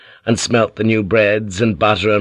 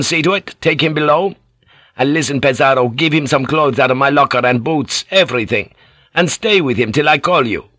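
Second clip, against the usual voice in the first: lightly voiced captain giving orders, a bit raised; brisk orders across the deck; commanding captain; 5 semitones higher than usual. Captain ordering the bosun to feed the pilot, lightly commanding.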